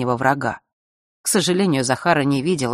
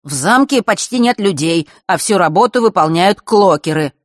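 respectful tone; 4 semitones higher, 5 dB louder than usual. Acted. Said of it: "нормальным, почтительным тоном".

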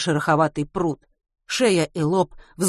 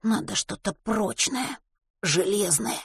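sighing; 4 semitones higher, 5 dB quieter, slower than usual. A narrator's reading. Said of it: "проговорил со вздохом".

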